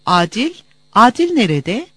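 breathless, anxious asking; out of breath. A narrator's reading. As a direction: ask gasping for breath. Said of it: "soluk soluğa sordu".

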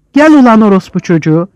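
loud challenging curse; angry taunt. Acted. A fighter curses his opponent loudly in anger. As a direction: hurl the insult at the enemy. Riot insult.

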